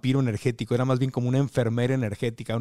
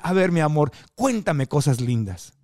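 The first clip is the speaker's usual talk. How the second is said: imitating a celebrity. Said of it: "Esa era su línea".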